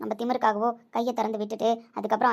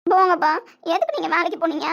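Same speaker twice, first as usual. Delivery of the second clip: tearful protest; 6 semitones higher, 7 dB louder than usual. Acted. Tearful daughter protests to father.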